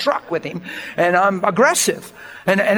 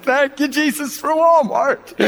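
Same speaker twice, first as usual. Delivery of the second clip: high-pitched mock praise shout; playful hallelujah-style outburst; exuberant thanks; 8 semitones higher, slower than usual. Retold joyful thanks to Jesus.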